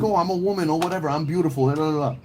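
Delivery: high, fast mocking girly voice; prissy mock of an entitled woman. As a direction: sneer it out quick and high. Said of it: "she's like".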